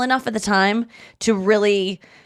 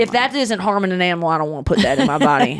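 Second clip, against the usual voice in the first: put-on a touch of a Southern redneck accent, faster; lightly mocking redneck voice; faster than usual. Comedian mocking vegan-haters, a light redneck accent. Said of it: "I put an accent on that".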